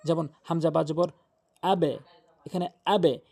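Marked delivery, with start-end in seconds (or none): 1.6-2.0 আবে with a push on the b, bouncing off; qalqalah bounce. Shown as a demonstration. Teacher showing learners the qalqalah push, bouncing the b in আবে. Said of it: "ধাক্কা দিয়ে পড়বেন". 2.8-3.2 আবে with a push on the b, bouncing off; qalqalah bounce. Shown as a demonstration. Teacher showing learners the qalqalah push, bouncing the b in আবে. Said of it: "এই ধাক্কাটা".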